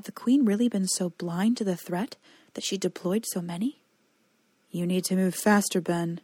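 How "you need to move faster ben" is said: words pushed through clenched teeth; strained, teeth clenched; through gritted teeth. Acted. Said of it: "through gritted teeth".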